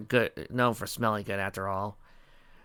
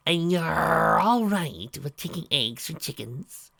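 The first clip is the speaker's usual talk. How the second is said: surprised; 7 semitones higher, slower than usual. A narrator's reading. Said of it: "Trixie surprised".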